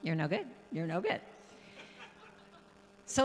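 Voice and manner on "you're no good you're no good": a hint of a nagging inner voice; nagging old voice. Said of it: "you'd hear this old voice going".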